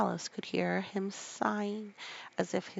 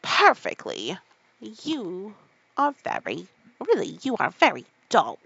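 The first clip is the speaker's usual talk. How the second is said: louder, scornful scolding; 7 dB louder than usual. Acted. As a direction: tell her off for being dull. Mock Turtle scolding Alice.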